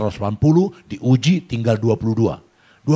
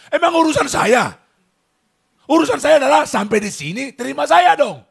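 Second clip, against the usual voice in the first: angry protest; 4 dB louder than usual. Retold or imitated. Arguing at boarding gate.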